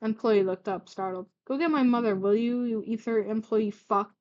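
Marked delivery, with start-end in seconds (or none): 1.5-4.1 snarled. Acted. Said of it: "Gladion snarled".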